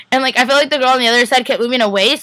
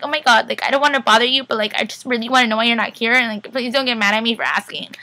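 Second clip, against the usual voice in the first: mock timid pleading. Mocking how she could have asked him, mock timid pleading. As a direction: pretend tiptoeing round someone fragile. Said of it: "not gonna act like he's, like, a little fragile little boy".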